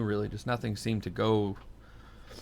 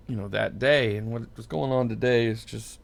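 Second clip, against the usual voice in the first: choked up. Real, not acted. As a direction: voice tight from recent crying. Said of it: "my voice sounds choked up".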